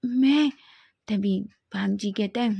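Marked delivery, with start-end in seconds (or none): 0.1-0.5 surprised. A narrator's reading. Wing surprised by invitation.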